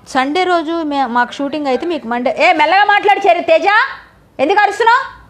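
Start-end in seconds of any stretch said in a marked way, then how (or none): 2.4-5.2 calling out loudly. Real, not acted. Calling out to Teja off-mic.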